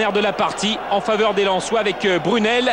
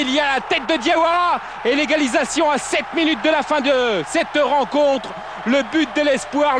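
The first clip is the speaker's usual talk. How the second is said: excited sports commentary; 3 semitones higher than usual. Real, not acted. Equaliser in live commentary.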